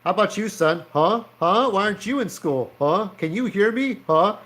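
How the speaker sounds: lightly acted cop pestering a kid; mock annoyed interrogation; pissed-off officer. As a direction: press for an answer with repeated questioning huhs. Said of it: "both of these officers look kinda pissed off".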